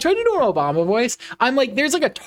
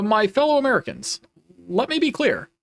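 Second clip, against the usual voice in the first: lightly voiced presidential impression; measured mock speech with a pause between phrases; Obama. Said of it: "I sound just like Obama when I do that".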